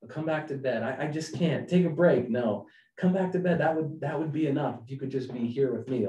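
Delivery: lightly voiced refrain of a distracted spouse; busy husband's excuses. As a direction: rattle off the excuses. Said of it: "this common refrain".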